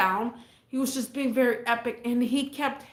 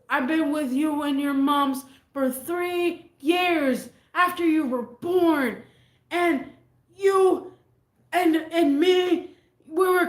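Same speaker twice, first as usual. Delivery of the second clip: put-on drunk rant; 4 semitones higher, 3 dB louder than usual. Drunk dad ranting at kids.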